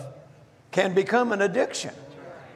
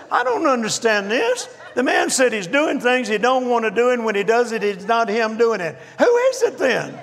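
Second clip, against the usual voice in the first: higher, louder, laughing complaint; laughing exasperation; 5 semitones higher, 3 dB louder than usual. Retold or imitated. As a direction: protest in half-laughing bafflement. Retold baffled complaint to wife.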